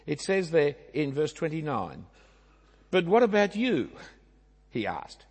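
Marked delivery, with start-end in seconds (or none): 2.9-3.9 WHAT punched high and loud; pointed, louder challenge to the disciples; emphatic. Retold or imitated. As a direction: press the question "what" hard and loud. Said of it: "It's even more emphatic than that".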